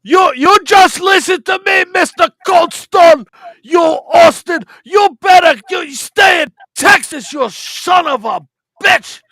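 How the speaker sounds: shouted heel wrestler promo; over-the-top wrestling trash talk; wrestling promo rant. Pretend. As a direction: yell it like a foreign heel cutting a promo.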